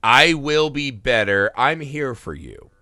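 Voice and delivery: slow, measured mock sincerity; earnest promise. Husband promising wife he'll change, slow and earnest. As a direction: imitate a solemn vow of support.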